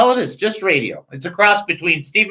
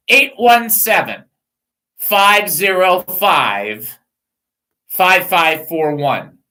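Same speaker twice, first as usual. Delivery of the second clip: slow numbers; much slower than usual. Shown as a demonstration. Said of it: "give me that number back".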